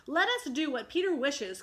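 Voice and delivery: obey with enthusiasm; simple boys eager to please Peter; eager cry. Acted. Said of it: "cried the simple boys".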